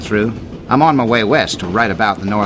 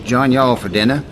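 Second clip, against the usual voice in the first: put-on Texan accent. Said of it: "a unique Canadian accent".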